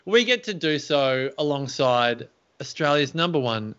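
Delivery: energetic show introduction; show host intro. Acted. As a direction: welcome the audience like a radio host.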